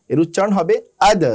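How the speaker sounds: আদ with the দ released in a bounce; bouncing d. Shown as a demonstration. Teacher showing qalqala on দাল. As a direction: let the দ of আদ rebound. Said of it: "এই দাল উচ্চারণ করার সময় bounce হবে".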